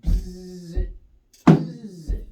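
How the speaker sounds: buzzy "bzz" like an open hi-hat; hi-hat buzz. Shown as a demonstration. Teacher voicing the hi-hat sound for his student, a loud buzz. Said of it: "I want you to go".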